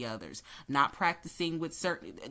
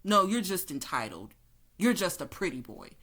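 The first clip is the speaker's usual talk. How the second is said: mock gaslighter. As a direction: scoff it off like a dismissive boss. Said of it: "the gaslighting".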